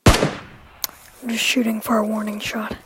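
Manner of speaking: whispering. Real, not acted. Sneaking, firing warning shot.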